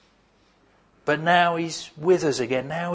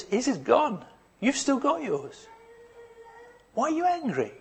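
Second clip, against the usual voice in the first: tender father; 3 semitones higher than usual. Retold or imitated. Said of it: "this is what his father's response is".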